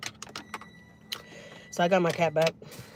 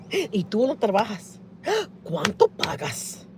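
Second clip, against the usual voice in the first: slow prying lady; 3 semitones higher, much slower than usual. Retold or imitated.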